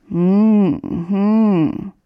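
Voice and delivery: schläfriges, geschlossenes Hm-Brummen; verschlafenes Murmeln. A narrator's reading. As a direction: murmle halb im Schlaf vor dich hin. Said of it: "murmelte Möndlein". (Möndlein brummt verschlafen, als Hähnchen es weckt, murmelnd)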